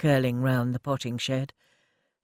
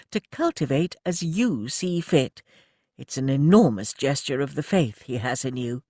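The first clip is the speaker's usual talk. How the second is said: brisk lady manager; 3 semitones higher than usual. Acted. Mrs Frobisher telling Annie of the inspector, proper lady voice. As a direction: play the well-meaning welfare officer.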